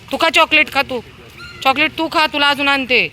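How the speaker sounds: high, loud coaxing to a dog; high loud pet coaxing. Real, not acted. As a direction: urge the dog to eat.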